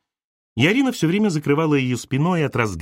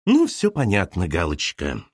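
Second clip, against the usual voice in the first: dropping low on «Галочка»; the mother's smug conclusion; knowing mother; 5 semitones lower than usual. Acted. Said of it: "сказала мать". (мать многозначительно)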